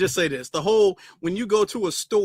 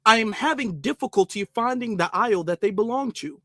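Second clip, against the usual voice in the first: higher, carefully proper customer voice; mock formal courtesy; overly polite shopper; 4 semitones higher than usual. Shopper asking a Walmart worker for the aisle, mock proper voice. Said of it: "If I go into Walmart".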